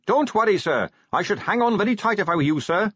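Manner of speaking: high shout above the wind. A narrator's reading. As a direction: call a warning over rushing air. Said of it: "shouted Carrot above the rising wind".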